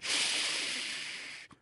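sharp whispered hush; shushing. Acted. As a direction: hush him urgently. Hagrid hushing Ron.

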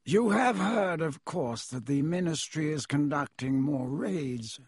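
haughty, measured nobleman; cold aristocrat. Acted. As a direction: speak down to a shopkeeper. Malfoy voiced by reader.

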